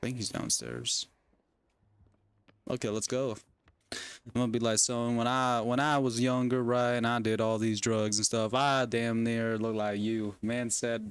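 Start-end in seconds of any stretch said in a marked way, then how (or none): 4.8-10.3 put-on Texan accent. Parent warning son off drugs, Texan accent. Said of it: "pretend I have a Texan accent".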